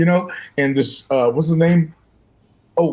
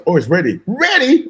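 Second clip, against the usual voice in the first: yelping ready as the scalp burns; mock yelp; 4 semitones higher than usual. Retelling his burning scalp with a high mock yelp. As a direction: voice jumping way up on the second ready.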